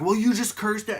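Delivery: high-pitched mock outrage, cut short; retold cursing out. Angry customer throwing blame back at the barista, mock-indignant. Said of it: "he's cursing me out again".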